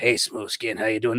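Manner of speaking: ghoulish character voice. Describing how ghouls talk to other humans: imitating a Fallout ghoul. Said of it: "they see other humans that aren't ghouls and go".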